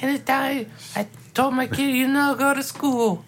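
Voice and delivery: Bedtime Paul. Acted. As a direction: deliver it haltingly, bed sounding like bad. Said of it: "just keep going like that".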